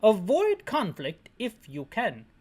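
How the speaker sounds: slow, hammed-up British briefing; mock British accent. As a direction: stretch out the fake British advice. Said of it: "this guy isn't British anymore".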